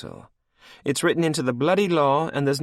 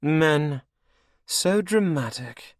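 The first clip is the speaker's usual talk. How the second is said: high, slow dismissive sneer; eye-rolling scorn; 10 semitones higher, 5 dB louder, slower than usual. A narrator's reading. Anne dismissing Cashel, high slow scorn. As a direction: roll your eyes through it. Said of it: "She rolled her eyes".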